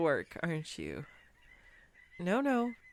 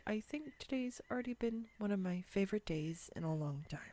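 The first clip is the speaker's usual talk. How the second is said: quiet, whispered tender admission; sincere whispered confession; soft confession; 6 dB quieter than usual. Real, not acted. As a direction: confide it softly to the date.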